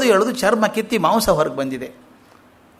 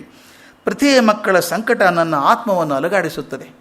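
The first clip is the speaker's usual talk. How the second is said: slow, weighty recitation of the sage's words; slow solemn quote; slower than usual. Shown as a demonstration. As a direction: read it out slowly and solemnly. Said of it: "ಅವ್ರದ್ದೇ ಮಾತು ಹೇಳ್ತೀನಿ ಕೇಳಿ". (ನಿಧಾನವಾದ ಗಂಭೀರ ಉಲ್ಲೇಖ)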